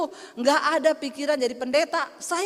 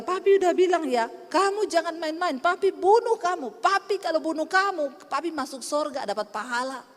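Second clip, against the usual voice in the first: lightly voiced furious father warning his child; angry father. Daughter retells her angry father threatening her, mildly angry. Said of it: "Dia marah".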